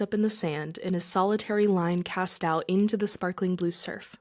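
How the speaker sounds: storyteller reading a fable, even and clear; parable narration. A narrator's reading. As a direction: tell the parable to the audience.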